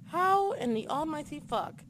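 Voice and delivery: a hushed, stunned replay of the shock; quiet stunned wonder; baffled disbelief. Retold or imitated. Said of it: "I was like".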